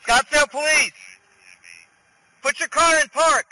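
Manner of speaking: loud police commands; shouting commands. Real, not acted. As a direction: bark orders through the car door. Officer yelling commands at car.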